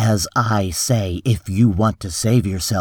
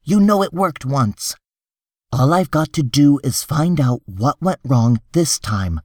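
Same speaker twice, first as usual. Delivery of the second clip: higher-pitched, urgent persuading; insistent reassurance; 5 semitones higher than usual. Acted. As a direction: press them to believe you. Hartz reassures then warns desperate client.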